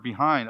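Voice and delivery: "behind" set apart and stressed, falling; stressed word. Shown as a demonstration. Preacher singles out the repeated word "behind", stressed. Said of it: "The word".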